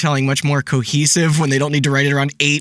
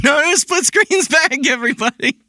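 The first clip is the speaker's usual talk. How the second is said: mock announcement; 10 semitones higher than usual. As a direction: announce it like a proud developer. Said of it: "They're like".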